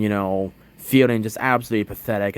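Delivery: ordinary talk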